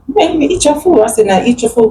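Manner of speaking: high, nagging scold. Retold or imitated. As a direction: push him to eat, exasperated. Scolding dad to eat.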